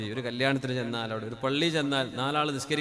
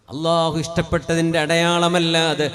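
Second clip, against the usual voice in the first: loud, high, impassioned sermon voice; fervent Friday preaching; full-force preaching; 3 semitones higher, 11 dB louder, slower than usual. Acted. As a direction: preach it out to the whole hall.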